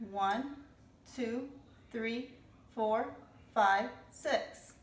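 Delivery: put-on slow counting aloud for kids; counting drops one by one for children; teaching to count. Shown as a demonstration. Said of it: "Count with me".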